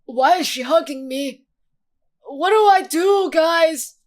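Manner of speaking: high, panicky mock voice of a stiff hero; squeaky mock-awkward guy being hugged; flustered Rover. Streamer voicing Rover panicking at a hug, high and squeaky.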